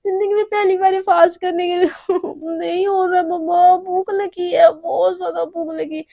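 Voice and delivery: high whiny complaint of hunger; hungry whine. Acted. Daughter whining to her mother about hunger, high and whiny. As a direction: whimper like a starving child.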